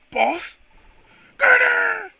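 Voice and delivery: loud high call of the boss's name; shouting the boss's name; shouted call. Acted. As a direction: yell across the yard. Calling the boss loudly.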